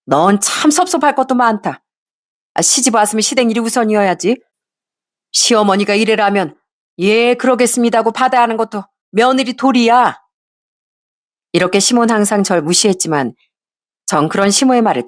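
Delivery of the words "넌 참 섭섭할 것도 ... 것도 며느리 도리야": lightly voiced scolding mother-in-law, a bit higher; a hint of a sharp mother-in-law brushing off her son. Mother-in-law brushing off her son's complaint, a bit higher.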